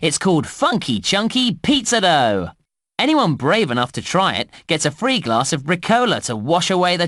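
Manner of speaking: lively, swooping announcer delivery; park promo read. Acted. Announcer plugging a new ice cream flavour to park visitors, promo read.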